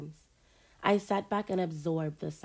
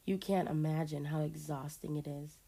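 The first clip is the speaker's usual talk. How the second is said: tired and softer; weary sigh; 5 dB quieter than usual. Acted. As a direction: sigh it out, worn down. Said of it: "then sighed".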